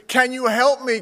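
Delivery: pleading. Acted. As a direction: beg for help from the cliff. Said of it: "dangling man begs for help".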